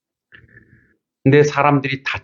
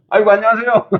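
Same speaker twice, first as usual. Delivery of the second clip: high-pitched, effusive hello, acted out; sing-out courteous greeting; friendly greeting; 10 semitones higher than usual. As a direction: greet them with exaggerated cheer in a raised voice. Greeting the son-in-law who cursed.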